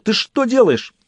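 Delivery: high-pitched alarmed shout; yelling. A narrator's reading. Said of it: "заорал Джек".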